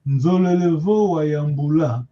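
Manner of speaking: "Nzolevo" starting on a hummed "n", not "en"; nasal N. Shown as a demonstration. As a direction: model "Nzolevo wa Yambula" with nasal onset. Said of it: "Remember the nasal, you don't read N".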